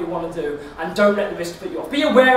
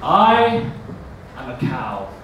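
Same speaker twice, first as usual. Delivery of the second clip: Yorkshire cow; 4 semitones lower, much slower than usual. Retold or imitated. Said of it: "with a very strong Yorkshire bovine accent".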